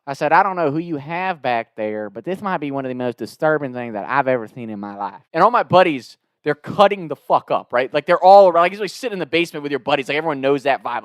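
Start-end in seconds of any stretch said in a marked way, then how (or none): 0.3-5.2 mock-grave Southern customer; put-on Southern complaint, straight-faced; Southern twang. Prank caller tells staff how disturbed he is, Southern twang. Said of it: "this Southern twang".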